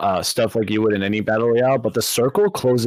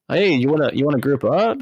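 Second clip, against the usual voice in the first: slightly higher, lightly acted invitation; imitating eager player; 5 semitones higher than usual. Player asking a stranger to group up, mock eager. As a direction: pitch it up like a player inviting you. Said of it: "I'm just like".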